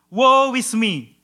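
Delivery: preacher voicing Isaiah's slow lament; mournful lament. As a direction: mourn over yourself, drawn out. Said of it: "the language of a mournful lament".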